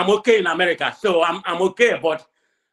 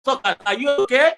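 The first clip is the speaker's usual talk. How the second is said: retold outburst at diaspora Nigerians; 6 semitones higher than usual. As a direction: scold them, pitch up and push. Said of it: "I said".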